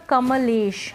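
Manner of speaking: कमलेश stretched with a full "a" after म, ka-ma-lesh; drawn-out syllables. Shown as a demonstration. Teacher showing learners how the name is not said, कमलेश with an over-sounded म. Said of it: "ऐसे नहीं बोल रहे हैं".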